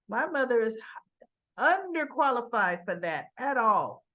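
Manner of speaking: loud, punched retold objection; emphatic dismissal. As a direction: dismiss the idea firmly and loudly. Son insists mother is unqualified, retold.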